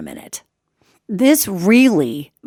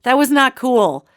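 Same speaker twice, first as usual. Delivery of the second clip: higher, mildly indignant telling-off; retold scolding yell; 5 semitones higher than usual. Owner down the hallway to the creature, mildly scolding. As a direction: scold firmly, a mock yell. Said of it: "I yell down the hallway".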